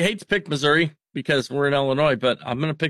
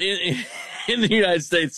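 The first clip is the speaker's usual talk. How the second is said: laughing correction; 4 semitones higher than usual. Real, not acted.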